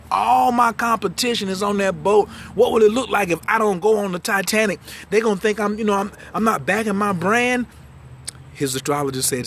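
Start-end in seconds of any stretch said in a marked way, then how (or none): 0.1-7.6 mock protest. Acts out Morgan protesting the advice.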